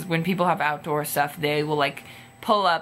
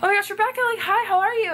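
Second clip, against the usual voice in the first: put-on high, louder fan-girl gush; starstruck greeting; 3 dB louder, faster than usual. Greeting Rebecca as a fan, high excited squeal. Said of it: "I'm like".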